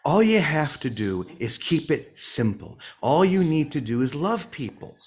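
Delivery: playful impression of a simple, heartfelt message in a Boston accent; Vicky. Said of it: "I'm gonna imitate Vicky now".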